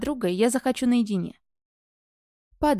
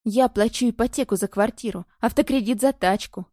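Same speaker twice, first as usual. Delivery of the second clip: ordinary delivery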